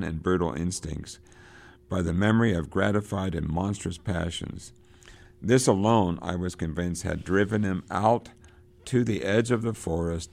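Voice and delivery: reading a novel passage aloud with rising drama; dramatic read-aloud. A narrator's reading. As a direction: lecturer reading Conrad to the class with gathering intensity. Teacher reads novel passage aloud.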